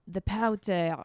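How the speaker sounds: British attempt sliding into French accent; botched French accent. Comic retelling a British baking show, slipping into a French accent. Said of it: "that's a French accent".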